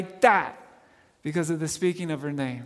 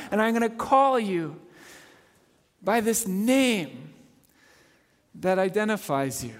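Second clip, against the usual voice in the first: tender voice of God; 3 semitones higher than usual. Acted. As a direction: speak it like a loving promise. Voicing God's tender words.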